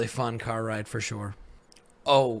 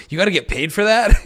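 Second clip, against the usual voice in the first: high, loud mock disbelief; raised incredulous question; incredulous quip; 8 semitones higher, 9 dB louder than usual. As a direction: toss it out like it's obvious. Buddy's deadpan joke, everyone laughs.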